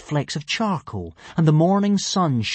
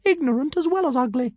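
higher, haughty insult; offended tiny dragon. A narrator's reading. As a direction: look down your tiny nose. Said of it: "hugely offended".

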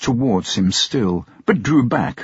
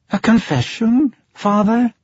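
startled question; 11 semitones higher than usual. Acted.

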